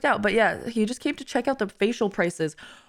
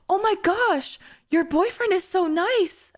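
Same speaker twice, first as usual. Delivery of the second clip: mock gushing lady; 9 semitones higher than usual. Imitating the gushing clinic lady.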